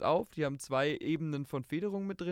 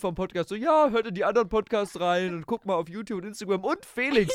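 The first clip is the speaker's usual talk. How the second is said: podcast host outro; 6 semitones higher, 7 dB louder than usual. Pretend. Mock podcast outro plug.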